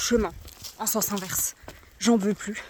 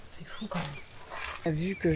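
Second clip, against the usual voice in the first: whisper; 5 semitones lower, 12 dB quieter than usual. Real, not acted. Awed at the view, whispering.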